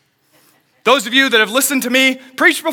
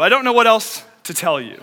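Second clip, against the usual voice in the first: ordinary delivery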